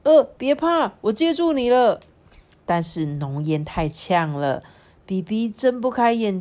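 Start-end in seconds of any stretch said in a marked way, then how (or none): 0.0-2.0 higher-pitched acted rescue call; urgent reassurance. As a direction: reassure quickly while catching a friend. Friend catching a falling friend. (急忙安慰的语气)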